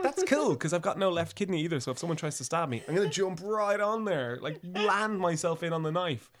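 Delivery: eager bravado about the missing kidney, then slowing; mock eager boast. To his friend, joking about being stabbed, in mock eager bravado. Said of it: "I was like".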